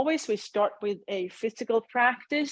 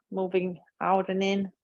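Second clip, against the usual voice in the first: unhurried guiding voice with long pauses; measured meditation-teacher delivery; guided meditation. Acted. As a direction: lead them gently through a body scan, leaving space after each phrase. Leads a meditation.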